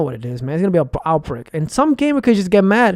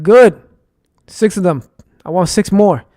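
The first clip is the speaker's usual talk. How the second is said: retold grim satisfaction; 4 dB louder than usual. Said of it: "I'm like".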